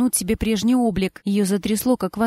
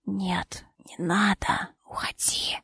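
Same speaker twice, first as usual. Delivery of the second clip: barely audible whisper; faint rustling whisper; 2 semitones lower, 8 dB quieter, slower than usual. A narrator's reading. Dying husband sends his wife away, faint whisper. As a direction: breathe the words out faintly. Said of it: "едва уловимо прошелестел голос".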